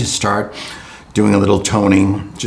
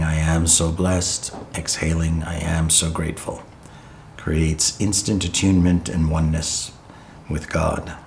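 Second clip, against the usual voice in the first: guided meditation; 5 dB quieter than usual. Real, not acted. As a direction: guide them gently into breath and stillness.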